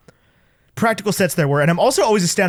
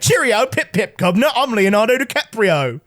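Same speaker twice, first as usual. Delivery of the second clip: hammed-up British accent; cheery, exaggerated mock-British greeting; Leonardo DiCaprio; 4 semitones higher than usual. DiCaprio introducing himself to a stranger, in a fake British accent. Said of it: "DiCaprio could come up to me like".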